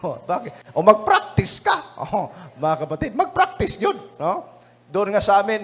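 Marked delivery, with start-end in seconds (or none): 0.8-1.8 mock urging. Urging someone to practice singing. 3.1-4.0 mock urging. Mocking the off-key practice.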